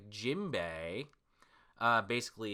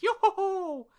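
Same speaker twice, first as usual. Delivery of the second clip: a much higher, put-on skeleton laugh; Brook laugh; 7 dB louder than usual. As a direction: sing out Brook's laugh, hammed up. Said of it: "Brook's like".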